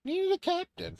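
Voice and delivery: lightly voiced pirate captain. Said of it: "pirate Matri".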